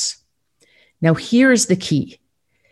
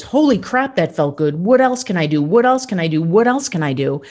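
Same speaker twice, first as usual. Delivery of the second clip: thrilled body voice. Retold or imitated. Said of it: "our body says".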